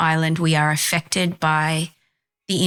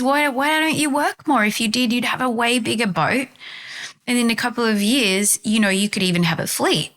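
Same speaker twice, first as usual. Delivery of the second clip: higher, pressing sales-pitch voice; pushy tourist; 5 semitones higher than usual. Acted. Tourist urging the fisherman to work more, pushy and higher. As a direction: push the idea hard like a go-getter tourist.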